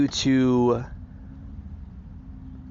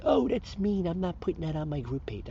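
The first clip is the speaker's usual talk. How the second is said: higher-pitched mimicry of a fussy complainer; mock objection; 5 semitones higher, 6 dB quieter than usual. Host mimicking an admin refusing posts, mock objection. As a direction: put on a higher, whiny-objector voice.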